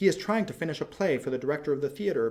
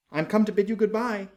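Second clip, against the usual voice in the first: cried out; 8 semitones higher, 6 dB louder than usual. A narrator's reading. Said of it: "he cried".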